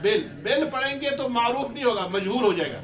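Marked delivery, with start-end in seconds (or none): 0.0-0.2 बेल with a long e like "bel", shown as the mistake; ग़लत उच्चारण बेल; wrong vowel demo. Shown as a demonstration. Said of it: "इसको बेल नहीं पढ़ना है".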